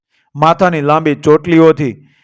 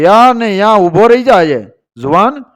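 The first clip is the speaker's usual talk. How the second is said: raised, higher-pitched challenge to halt; challenging call; 4 semitones higher than usual. Acted. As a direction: call out a warning to a fleeing farmer. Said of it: "પડકારો કર્યો કે".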